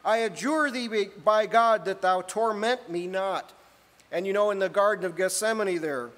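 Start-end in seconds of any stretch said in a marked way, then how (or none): 0.0-3.5 mild loud cry. Acted. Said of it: "cried with a loud voice".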